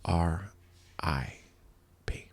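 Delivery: slow, soft, spaced letters; mock tearful farewell; almost tearing up. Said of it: "almost tearing up".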